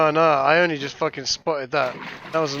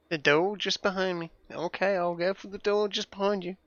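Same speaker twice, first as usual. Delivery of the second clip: softer, lightly mimicked Australian accent; dodgy Australian accent; 3 semitones higher, 7 dB quieter than usual. Player repeating the game character's directions, dodgy Australian accent. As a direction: echo it with an Australian twang. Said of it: "and a dodgy Australian accent".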